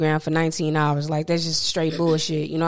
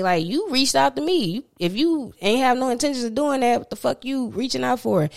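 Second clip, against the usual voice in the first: heated rant; 7 semitones higher than usual. Real, not acted. Ranting to the camera about the flaky stylist, outraged and pitched high.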